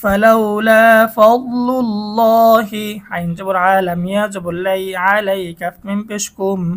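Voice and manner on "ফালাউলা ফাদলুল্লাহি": ফাদলুল্লাহি with thick, full ল; heavy lam. Shown as a demonstration. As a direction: round out the লাম in আল্লাহ. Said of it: "আল্লাহ শব্দের লামটা মোটা হবে". (মোটা লাম)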